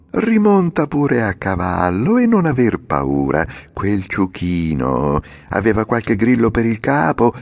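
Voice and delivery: falsely kind calm; little man, reassuring. Acted. The coachman reassures Pinocchio. (l'omino rassicurante, finto gentile)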